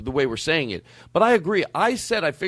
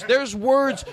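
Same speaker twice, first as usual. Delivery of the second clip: ordinary talk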